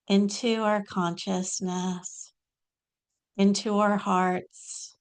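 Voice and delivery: measured invocation with long pauses between phrases; prayerful invocation. Real, not acted. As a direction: invite the guru in, phrase by unhurried phrase. Leads an invocation to Babaji.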